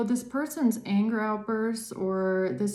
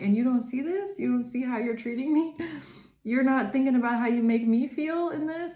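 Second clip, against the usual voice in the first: mildly exasperated, pitched-up challenge; confronting; 4 semitones higher than usual. Acted. Talking to the person who mistreats you, confronting. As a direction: imitate an upset, pointed confrontation. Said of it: "talking to this person".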